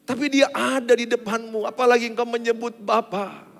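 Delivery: loud, driving sermon voice; fiery preaching. Acted. Preacher urging the congregation to come to God, loud and fervent. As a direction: preach it out to the whole church. Preaching builds to full force.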